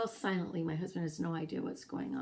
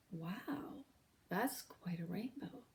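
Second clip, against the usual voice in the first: quiet wonder; 6 dB quieter, slower than usual. Retold or imitated. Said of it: "he says".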